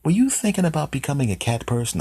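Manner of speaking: high cartoon animal voice; animal character. Talking animal asking the man about liking cats, high voice.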